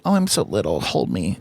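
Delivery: put-on half-hearted baby act for laughs; joking little voice. Teasing his partner, a hint of a mock tiny voice. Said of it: "as a joke".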